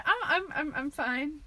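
unsteady, nervous voice; shaky voice. Real, not acted. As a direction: voice wobbling a little. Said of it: "Says with shaky voice".

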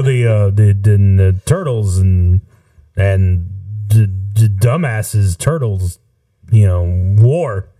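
put-on slow, mumbling old president voice; light, halting Biden imitation; Joe Biden impression. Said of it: "I can be Biden right now".

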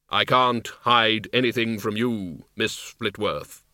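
slow, hollow Death voice; grim reaper voice. Acted. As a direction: speak as Death, unhurried and grave. Death speaks, slow deep.

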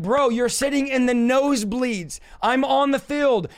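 worn-out hoarse voice after yelling. Real, not acted. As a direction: rasp through a tired, hoarse voice. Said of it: "I have no voice 'cause yesterday I was yelling".

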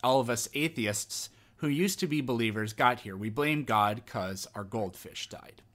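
mock-solemn sarcastic accusation. Host mocking what atheists get told, sarcastic. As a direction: state it as if obvious, tongue in cheek. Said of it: "I'm obviously being sarcastic here".

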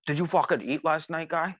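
a hint of the crazy host; imitated host voice. Host questioning the band at six, mild imitation. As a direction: lightly mimic an odd-voiced host checking on guests. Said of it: "His voice is just insane".

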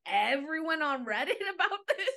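rising incredulous complaint breaking into laughter; mock indignation. Acts out confronting the partner.

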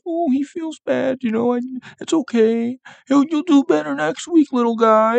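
high, sugary voice for a sad little guy; mock coddling. Fan comforting a sad Josh Allen, high and cooing. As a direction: coo at him like a sulking toddler. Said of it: "I'm like".

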